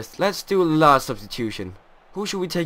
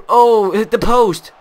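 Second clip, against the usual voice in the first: surprised shout; 6 semitones higher, 8 dB louder, slower than usual. Real, not acted. Shot hits the post.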